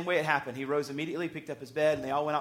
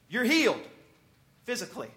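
acted-out healing declaration, voice lifted; imitated proclamation; 5 semitones higher than usual. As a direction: announce it like the expected miracle. Acts out expected words of Jesus.

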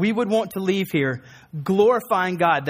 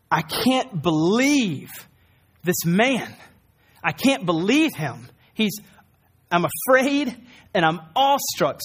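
awestruck crowd; slower than usual. Retold or imitated.

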